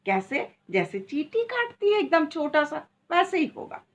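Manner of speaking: high, sweet-talking mother to her daughter; mother lightly soothing her daughter before the ear piercing; coaxing mother. Retold or imitated. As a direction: coax the little girl, voice lifted high. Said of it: "बोली".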